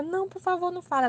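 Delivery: high-pitched imitation of a mortified plea; imitating an embarrassed friend pleading. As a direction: beg in mild mock panic. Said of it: "Ela morrendo de vergonha".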